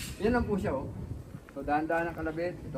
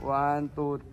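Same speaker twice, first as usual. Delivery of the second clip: loud count; 10 dB louder, much slower than usual. Real, not acted. Instructor tallies rounds fired.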